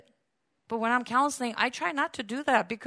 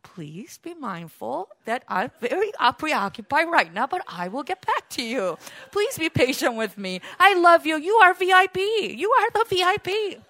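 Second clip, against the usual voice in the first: gentle loving reply; 3 semitones higher, 3 dB louder than usual. Retold or imitated. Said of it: "Why can't I just say".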